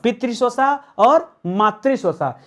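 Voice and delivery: slow, clearly spaced answer words. Shown as a demonstration. Teacher to students, slowly repeating the answer. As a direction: spell each word out slowly for the class. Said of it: "क्या कहते हैं?".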